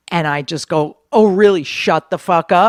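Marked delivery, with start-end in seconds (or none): 1.1-2.7 play-acted furious, raised angry outburst. Retelling an angry reply to a heckler: retelling an angry outburst. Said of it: "I went nuts".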